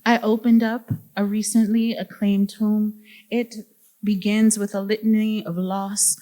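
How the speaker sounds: measured recital, phrase by phrase; poetry reading. Acted. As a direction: read it as solemn verse in deliberate phrases. Reads poetic introduction aloud.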